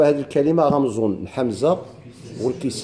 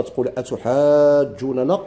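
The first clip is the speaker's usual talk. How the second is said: recitation; much slower than usual. Shown as a demonstration. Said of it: "خطابة".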